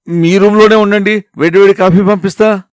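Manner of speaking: high-pitched wifely call. Acted. Wife sending coffee to quarantined husband, high calling voice.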